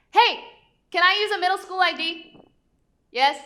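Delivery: high, loud call to someone off to the side. Real, not acted. Asking someone nearby if a school ID works, called out loud. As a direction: call out the question across the room, eager.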